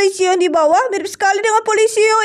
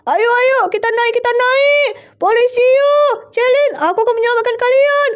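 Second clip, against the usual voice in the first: higher-pitched rallying cry; excited calling out; 4 semitones higher than usual. Pretend. Rescuer rushes up to free the captives, excited calling out. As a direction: call out eagerly to the captives. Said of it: "Kakak jangan teriak".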